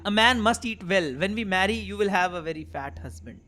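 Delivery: slow, measured English dialogue reading; game dialogue read-out. Acted. Player voicing pizza delivery chat, slow read-out. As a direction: read each line out deliberately, drawing out phrase ends.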